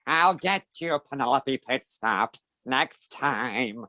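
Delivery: a hint of a sneering cartoon villain; lightly voiced villain threat; mild Paul Lynde style villain; Hooded Claw voice. Shown as a demonstration. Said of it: "so that, that's his voice".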